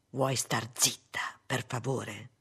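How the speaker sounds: slow, low, measured rebuke; restrained irritation. Acted. Husband silencing wife through door, low restrained irritation. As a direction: demand silence slowly, dropping low.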